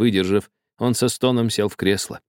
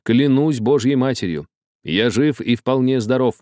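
measured, mildly raised declaration; solemn oath; 3 semitones higher than usual. A narrator's reading. Karlo humours the old man with an oath, solemn. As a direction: swear it solemnly. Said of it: "сказал торжественно".

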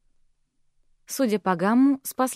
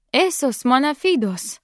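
cousin's curse; 3 semitones higher, slower than usual. Acted.

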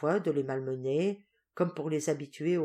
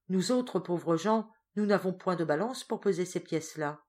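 wheedling; 2 semitones higher than usual. Acted. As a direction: drag it out humbly. Duenna feigns poverty.

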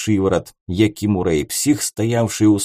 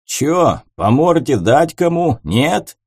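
provocative; 5 semitones higher, 4 dB louder, slower than usual. Acted. Psycho picks a fight entering bar.

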